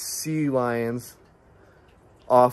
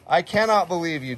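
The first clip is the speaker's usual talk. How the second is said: ordinary talk, nothing marked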